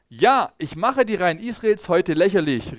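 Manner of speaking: mildly loud mocking call across the ranks. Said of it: "rief er". (leicht gehobener, spöttischer Ruf)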